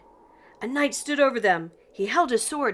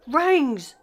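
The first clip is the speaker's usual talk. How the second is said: high, loud dog yelp; Scooby yelp; 6 semitones higher, 5 dB louder than usual. A narrator's reading. Scooby spotting the vampire's teeth, a high loud dog yelp. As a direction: yelp it out in alarm like a cartoon dog.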